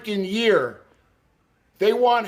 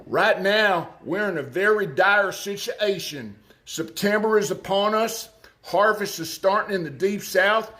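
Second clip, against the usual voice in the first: put-on light Southern Arkansas accent. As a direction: read it as an Arkansas farmer, Arkansas accent. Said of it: "I'm gonna do it in my best Arkansas accent".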